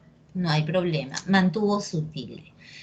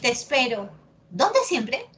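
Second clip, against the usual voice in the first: exaggerated question; 2 semitones higher than usual. Shown as a demonstration. Teacher overdoes the question to show the tilde, exaggerated. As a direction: ask ¿Dónde siempre? in an overdone, rising voice. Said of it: "Exagera, grita".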